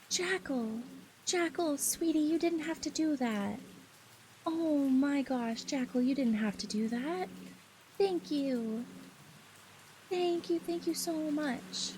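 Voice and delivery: high, excited, gushing thanks. Real, not acted. Streamer thanking a viewer for gifted subs, high and excited. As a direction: squeal your thanks up high.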